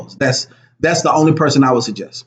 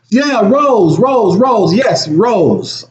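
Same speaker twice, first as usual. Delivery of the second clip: excited recall; 8 semitones higher, much slower than usual. Real, not acted. Remembering the name excitedly.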